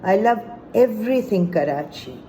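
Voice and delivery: measured poetry reading with pauses between phrases; deliberate, phrase-by-phrase delivery of verse; poem recitation. Acted. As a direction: recite it as a love poem, line by line. Recites own poem about Karachi.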